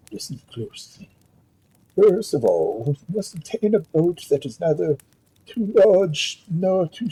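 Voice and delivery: a hint of a calm horse, measured and patient; lightly voiced wise stallion. Stallion explains the plan.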